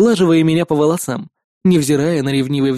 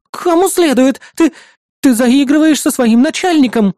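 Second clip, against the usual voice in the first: much higher, louder outburst; heated accusation; 9 semitones higher, 4 dB louder than usual. Acted. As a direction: accuse her loudly. (возмущённый девичий выкрик)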